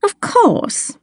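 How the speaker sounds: high, airy agreement dropping at the end; beaming. A narrator's reading. Miss Lana agrees with the girl, beaming. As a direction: smile through a delighted confirmation.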